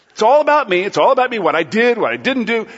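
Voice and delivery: loud mock self-obsession; proud self-absorption. Preacher mocking the proud response, loud and self-absorbed. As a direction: play up the me-centred complaint, loudly. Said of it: "Proud response".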